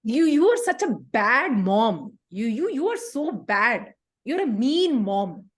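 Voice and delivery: slow, drawn-out accusation at mum; petulant child, mock-wounded; sulky child. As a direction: drag the words out in a pout. Child sulks at scolding parent.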